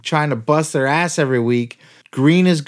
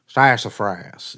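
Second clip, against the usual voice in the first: slow, drawled-out mock Southern accent on sassafras; mock southern twang; 5 semitones lower, slower than usual. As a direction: stretch sassafras like an old Southern announcer. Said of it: "making fun of his southern twang".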